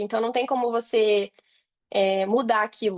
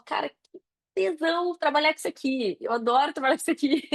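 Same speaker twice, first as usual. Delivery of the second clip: bright, raised voice gushing about loving the work; delighted self-quote; 5 semitones higher than usual. Retold or imitated. Woman quoting herself thrilled at her computer, excited. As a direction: gush like you can't believe your luck.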